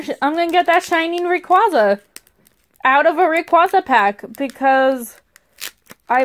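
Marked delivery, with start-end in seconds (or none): 0.2-4.2 fast, eager rush; higher and hopeful, rushing. Real, not acted. Hoping for a pull.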